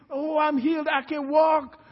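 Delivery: acted cry of a man just healed; excited exclamation.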